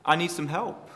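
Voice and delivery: lightly voiced exasperated sister; frustrated plea. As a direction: act out Martha fed up and demanding help. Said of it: "she's like".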